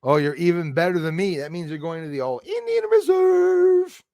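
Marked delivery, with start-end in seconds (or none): 1.4-4.0 teasing put-on voice.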